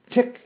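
high, short spoken ticks; mechanical ticking. A narrator's reading. Metal man ticks between phrases, high mechanical ticking. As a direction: tick like clockwork, high and evenly spaced. Metal man's clockwork tick.

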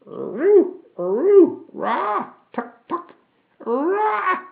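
very high screeching automaton noises; rising, high-pitched screeches and clucks; mechanical screaming. A narrator's reading. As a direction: shriek like gears being stripped. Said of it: "he screamed".

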